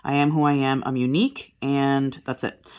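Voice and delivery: usual speaking voice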